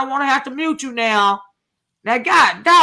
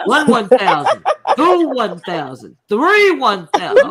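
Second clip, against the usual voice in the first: drawn-out, deliberate count; slow counting; 2 semitones lower, slower than usual. Real, not acted. Told to calm down by counting to ten, slow counting. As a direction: count very slowly, stretching each number. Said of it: "count to ten slowly".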